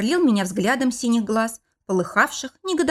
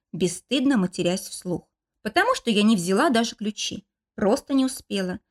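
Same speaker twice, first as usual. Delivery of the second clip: ordinary talk, nothing marked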